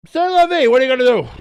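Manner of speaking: high, loud, hammed-up resignation; a theatrical so-what sigh of a line; mock resigned shrug. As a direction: throw up your hands in a sing-song.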